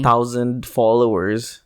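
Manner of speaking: slow whispered aside; teasing whisper. Acted. Mocking a friend's small follower count, slow whisper. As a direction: whisper it slowly as a mock secret.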